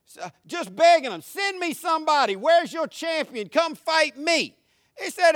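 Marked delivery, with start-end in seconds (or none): 1.2-4.6 raised-pitch taunting call for a challenger; goading challenge to a fight; mocking challenge. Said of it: "This dude been mocking them".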